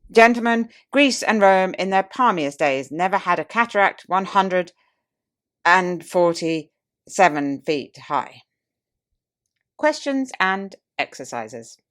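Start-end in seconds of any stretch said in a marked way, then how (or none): 0.1-8.4 tipsy pompous orator. Retold or imitated. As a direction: declaim with mock grandeur, dragging the final figure out. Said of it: "the oratorical instinct struggled with difficulties".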